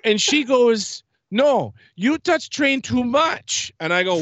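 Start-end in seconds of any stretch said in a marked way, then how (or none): 1.3-3.7 much higher, slower put-on voice of a stern ride attendant; imitating the lady. Recounting how the attendant at the ride booth called him back, mimicked high and slow. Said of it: "This is how she sounded".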